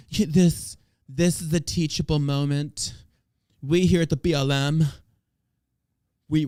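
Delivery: mocking Valley Girl lilt, lightly voiced; sing-song mock spokesperson voice; Valley Girl impression. To the listener, mocking BLM's statement in a Valley Girl voice. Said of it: "my black impression sounds like a Valley Girl".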